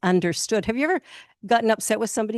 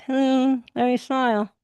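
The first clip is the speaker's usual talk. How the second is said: mock forced cheer; 7 semitones higher than usual. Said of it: "you come in here and go".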